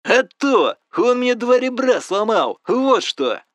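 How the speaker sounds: loud, high furious rant down the phone; shouting complaints at the friend whose father beat him, loud and angry; angry yelling. Acted. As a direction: let it all out, he's in pain and livid. Friend with broken ribs yells.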